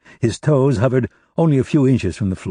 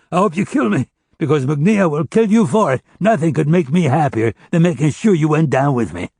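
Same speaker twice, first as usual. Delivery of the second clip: defiant taunt; 6 semitones higher than usual. Acted. Defiant prisoner taunting captor.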